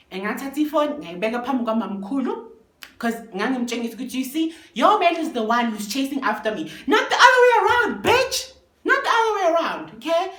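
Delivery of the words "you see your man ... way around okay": loud high taunting yell, laughing; triumphant shouting with laughter. Retold or imitated. Taunting the girlfriend that her man chases her, loud and laughing.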